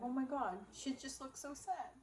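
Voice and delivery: a teasing imitation of a worried viewer; mock pitying viewer. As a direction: play a sympathetic fan, lightly mocking. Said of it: "you will literally look at me and be like".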